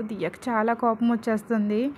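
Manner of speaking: ordinary delivery, nothing marked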